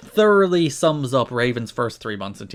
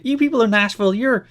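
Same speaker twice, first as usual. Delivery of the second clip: mock insult; 9 semitones higher, 4 dB louder than usual. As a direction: fumble for an insult to the crowd. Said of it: "it's like".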